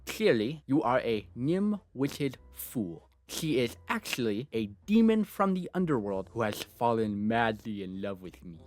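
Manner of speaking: breathless obsessed otaku gushing; weeb anime fan. Acted. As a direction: gush like a lovestruck anime nerd.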